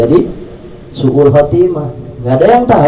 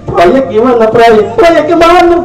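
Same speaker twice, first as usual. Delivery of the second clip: much higher, louder clueless boss asking about projects; mock busy manager; 12 semitones higher, 4 dB louder than usual. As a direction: ham up a boss still talking business. Dead GM asks about projects.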